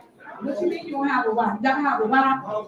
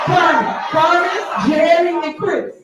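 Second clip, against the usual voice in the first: louder, urgent calling out of names; calls each trustee to get their attention; 3 semitones higher, 4 dB louder, slower than usual. Real, not acted. Official calling out to trustees, urgent raised voice.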